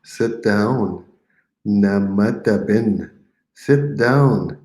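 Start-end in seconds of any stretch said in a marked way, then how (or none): 1.7-3.1 drawn out, each syllable clear; slow model phrase. Shown as a demonstration. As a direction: say it slowly for the class to copy. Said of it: "You say it".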